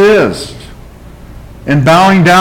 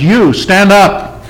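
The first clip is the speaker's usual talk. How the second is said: slow, higher, mildly irritated order; irritated command; 5 semitones higher, much slower than usual. Retold or imitated. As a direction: call him out, slowly and annoyed. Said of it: "the pastor's getting kinda irritated".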